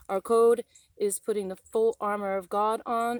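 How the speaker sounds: loud, forceful creed read line by line; a defiant creed proclaimed to followers; rallying declaration. Shown as a demonstration. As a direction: read the code like a battle pledge. Reads out the group's code.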